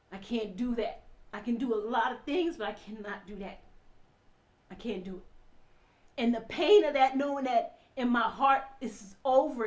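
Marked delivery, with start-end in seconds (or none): 0.1-6.2 low, sinking refusal; quiet resignation. Real, not acted. Wife deciding she cannot accept violence, quiet and resigned. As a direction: let it drop away softer and lower.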